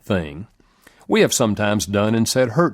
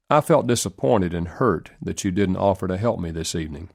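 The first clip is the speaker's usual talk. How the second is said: honest, kind; 2 semitones lower than usual. Shown as a demonstration. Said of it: "said in an honest, kind manner".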